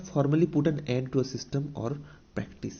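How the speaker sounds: very slow, word by word, as if for notes; dictating a definition to students; slow dictation. Shown as a demonstration. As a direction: read it out slowly so the class can write. Teacher reads English definition aloud.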